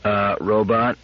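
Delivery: slow monotone machine, no intonation; robot droning each word evenly; mechanical robot voice. A narrator's reading. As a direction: speak slowly without accent or intonation. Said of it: "words that lacked accent and intonation".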